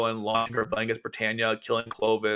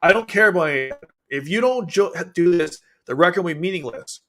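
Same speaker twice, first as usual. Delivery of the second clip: mock stern retort; 4 semitones higher, 4 dB louder than usual. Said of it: "Suzaku's like".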